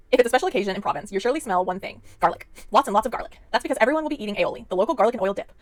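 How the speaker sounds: brisk product blurb read; card reading. Acted. Reads box card copy fast.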